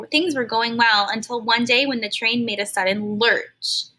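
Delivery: expressive read-aloud storytelling; storybook narrator reading to kids; story narration. Acted. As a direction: read it to a class like a picture book. Reads a story to children.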